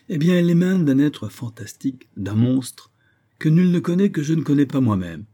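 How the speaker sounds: high, forceful revelation; feverish denunciation. Acted. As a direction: declaim it with mounting agitation.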